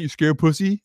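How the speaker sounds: a rising, teasing jab at the end; mock taunt. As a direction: imitate the roommate goading him. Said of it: "he always go to that".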